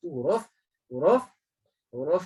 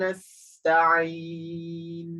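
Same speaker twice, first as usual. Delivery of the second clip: slow, chanted, a bit louder; Quran recitation; 4 dB louder, much slower than usual. Shown as a demonstration. Teacher reciting the fifth verse for the class. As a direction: recite the verse slowly, drawn out. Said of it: "Saya ulang balik".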